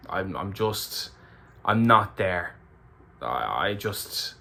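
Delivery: holding back tears, voice catching; welling up. Real, not acted. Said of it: "began to start to kind of well up".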